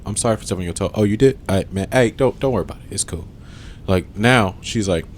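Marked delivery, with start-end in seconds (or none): 0.0-3.3 chill. Retold or imitated. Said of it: "I used to be so chill".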